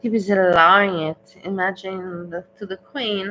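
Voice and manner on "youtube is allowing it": loud mock echo. Cohost echoes her complaint loudly.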